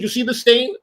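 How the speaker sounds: high accusing question; retold scolding. Boss points out stain to housekeeper, accusing scolding. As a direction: confront him with the evidence.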